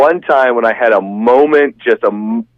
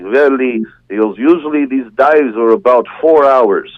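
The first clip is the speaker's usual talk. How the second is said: lightly put-on Russian accent; hint of a Russian accent; bad Russian accent; slower than usual. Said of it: "it'll be a really bad Russian accent".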